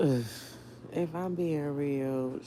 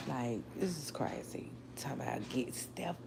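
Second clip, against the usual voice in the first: whispered; 6 dB quieter than usual. Real, not acted. Hushed aside about reporters.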